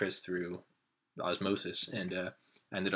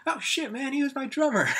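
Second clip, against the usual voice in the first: high, loud amazed exclamation; mock amazement; 8 dB louder than usual. Brother realizes the stranger was his drummer, amazed. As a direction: blurt it out, stunned.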